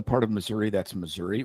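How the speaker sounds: "Missouri" with a clear -ee ending. Shown as a demonstration. Host contrasting Missouri pronunciations, the -ee one. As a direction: say the second "Missouri" as "Mizzur-EE". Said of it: "rural Missouri, it's Missouri".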